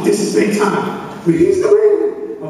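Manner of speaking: put-on boy thrilled the cool kid called. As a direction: build from a hush to a high thrilled squeak.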